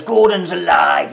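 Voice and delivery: slow, loud booming shout; really loud. Retold or imitated. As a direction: bellow the line out. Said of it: "like, really loud".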